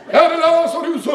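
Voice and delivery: high, hammed-up coaxing; mock-endearing call. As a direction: coo it in exaggerated fondness. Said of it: "Han kunne jo sagt".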